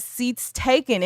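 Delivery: slow, lightly Southern "Seats taken,"; country boy accent. Retold or imitated. Re-doing the boy's line for the chat in a slow Southern drawl. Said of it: "mimicking the way the boy says".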